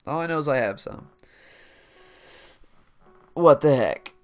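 ordinary delivery

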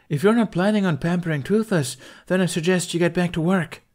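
calling out. A narrator's reading. Captain calls the women back to work, loud and high. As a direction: send the crowd back to work. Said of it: "she called out to the women".

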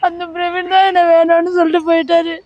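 a touch of put-on weeping; mock crying. Spurned woman pleading with the anchor, mildly tearful. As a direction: plead through mild fake tears. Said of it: "இப்ப எதுக்கு அழுவுறீங்க".

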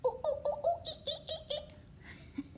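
high, laughing monkey call; monkey noise. Pretend. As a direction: chatter like a silly monkey. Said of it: "that's a monkey".

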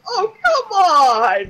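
high, drawn-out protest; slow wail at the game's unfairness; exasperated. Real, not acted. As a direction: stretch it out in frustration. Ejected from the level.

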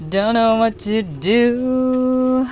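slow whispered worry. Real, not acted.

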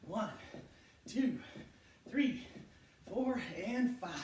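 loud, rising rep count; called-out count. Real, not acted. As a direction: call the reps out.

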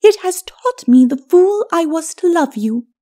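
high lady's voice, bitter reproach; high-pitched, rueful ladyship; reproachful lady. Acted. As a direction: reproach him as a wronged wife. Lady reproaches her husband.

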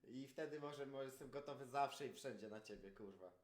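loud aggressive challenge; heated. Real, not acted. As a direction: lay down terms like a threat. Laying down fight conditions, heated.

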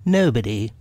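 lightly voiced rabbit, curt. Rabbit pretending the hole is empty, lightly voiced curt reply. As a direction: answer curtly with a hint of character. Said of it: "You needn't shout so loud".

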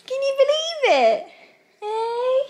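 very high cooing pet voice. Real, not acted. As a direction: gush over the puppy. Cooing at puppy.

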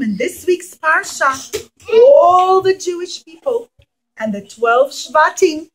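ordinary delivery

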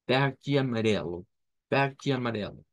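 "Verde amarelo" with guttural r, VEH-jee a-ma-RE-lo; Brazilian pronunciation. Shown as a demonstration. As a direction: repeat the common form. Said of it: "más común es esta". ("verde amarelo" a la brasileña)

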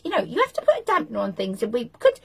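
lightly squeaky nagging wife; squeaky little voice. Retold or imitated. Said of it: "in her squeaky little voice".

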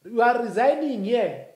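loud and high, shouting bosses; loud, high dismissal. Acted. Voicing bosses who sack him, loud. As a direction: play the bosses firing him.

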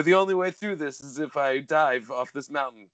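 lightly voiced nondescript European accent; Renny Harlin. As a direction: put on a hint of vague European accent. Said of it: "it's what I'm doing when I do Renny Harlin".

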